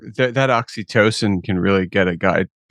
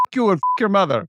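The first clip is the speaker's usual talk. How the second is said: high-pitched imitation of an angry scammer; mock cursing; 9 semitones higher, faster than usual. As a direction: play the cornered scammer lashing out, high. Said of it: "the rabbit turns around and goes".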